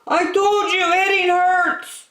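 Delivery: high, loud little pig voice; Piggy's voice. A narrator's reading. Piggy scolds the hamster, high and loud. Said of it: "Piggy cried after him".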